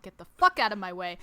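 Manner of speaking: loud punch on the swear word, laughing; mock irritation. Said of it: "In real life, I'm like".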